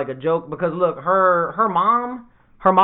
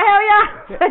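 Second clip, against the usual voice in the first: mock gleeful yes; 11 semitones higher than usual. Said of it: "So I was like".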